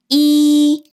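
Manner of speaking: 이 held high and level; first tone. Shown as a demonstration. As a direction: say 이 on one high, unbroken note from start to end. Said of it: "처음부터 끝까지 높게 발음하고 있죠".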